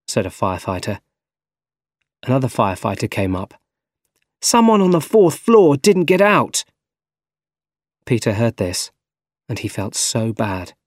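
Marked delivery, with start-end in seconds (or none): 4.4-6.6 high, loud call; urgent report. A narrator's reading. Firefighter announcing someone trapped in the fire, urgent. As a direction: call it out, alarmed.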